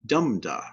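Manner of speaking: "dum da" with stress first, falling; trochee stress. Shown as a demonstration. Teacher explaining a trochee, "dum da" stressed on "dum". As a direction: hit "dum", let "da" drop. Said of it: "the stressed one comes first".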